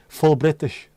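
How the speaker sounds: lightly imitated Polish accent; a hint of a Polish man's English. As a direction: say it like a Polish fella. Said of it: "Polish fella".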